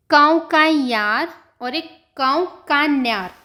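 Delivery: कौकैयार with a y sound, then कौकान्यार with ny; two readings. Shown as a demonstration. Teacher showing students both readings, slowly. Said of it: "आप इसको दो तरह से पढ़ सकते हो".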